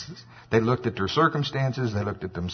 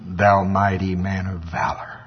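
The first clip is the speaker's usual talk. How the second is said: low, slow pronouncement; solemn angel's address; 4 semitones lower, slower than usual. Acted. Angel greeting Gideon hiding behind the wine press, low and solemn. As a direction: draw it out low and weighty.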